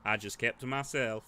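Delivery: lightly voiced weathered local, slow and guarded; a hint of a wary old-timer telling of the fire; gruff villager. Villager telling the players about the fire, lightly gruff.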